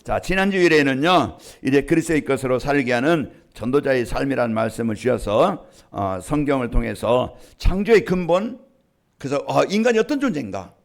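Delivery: usual speaking voice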